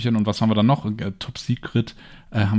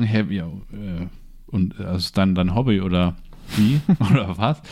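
herablassend; 3 semitones lower than usual. Retold or imitated. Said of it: "mit so einer Grundhaltung".

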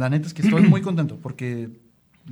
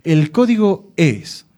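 slow and louder, like a radio announcer drawing it out; Rodrigo's slow announcer line; 4 semitones higher, 10 dB louder, much slower than usual. Shown as a demonstration. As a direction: stretch out the words like a radio promo. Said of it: "Entonces así lo voy a decir yo". (anuncio lento y sonoro, imitando a Rodrigo)

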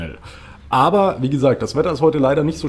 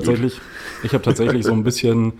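hungover morning voice; rough voice after a night out. Real, not acted. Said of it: "meine verkaterte Stimme".

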